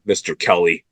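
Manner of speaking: Kelly, opening on a K sound; mispronounced surname. Real, not acted. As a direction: say Kelly with a K in place of the P. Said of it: "I think it's Pelly".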